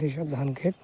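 talking with a toothbrush in mouth; while brushing teeth. Real, not acted. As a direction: mouth full of toothpaste foam. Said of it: "brush করতে করতে".

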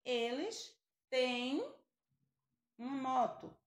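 eles têm spoken slowly and clearly; slow example. Shown as a demonstration. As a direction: draw out têm for the class. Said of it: "Por exemplo". (eles têm bem devagar)

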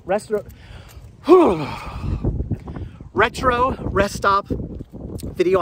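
mumbling with cold lips; frozen mouth. Real, not acted. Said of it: "I'm mumbling right now, it's so cold".

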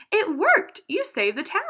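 high, loud burst of joy; joyful shout. A narrator's reading. Madison cheering the clockmaker after victory. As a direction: cheer the triumph.

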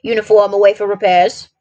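lightly voiced gruff old soldier; a touch of military gruffness. Messenger answers Watson's question, mildly gruff. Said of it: "he said gruffly".

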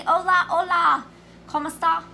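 loud, high Spanish greeting in a hick accent. Real, not acted. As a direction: call out Spanish hellos with a hick twang. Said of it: "Did I say it right in my hick accent?".

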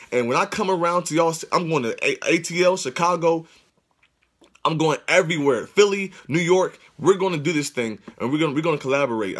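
pumped tour announcement rush; hyped up. Real, not acted. Streamer telling viewers he's coming to their cities, hyped. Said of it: "I'm hyped right now".

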